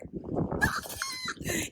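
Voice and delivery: delighted shrieking laugh; high squealing laugh. Real, not acted. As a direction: squeal with joy. Bursts out laughing at the news.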